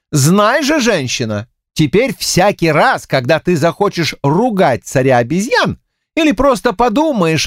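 a hint of a grand, self-satisfied king; mildly hammed-up boastful trickster; lightly voiced pompous monkey king. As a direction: declare it with lofty self-importance.

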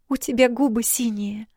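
put-on a girl alarmed, squeaking; girlish squeak. A narrator's reading. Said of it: "пискнул девичий голос".

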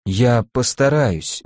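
slow, choked reply; forced out through tears. Acted. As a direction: squeeze the words out. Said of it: "выдавил я из себя". (сдавленно)

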